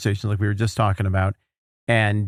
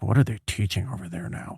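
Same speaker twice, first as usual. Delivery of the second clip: muttered; 6 dB quieter than usual. Retold or imitated. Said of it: "he muttered something on camera".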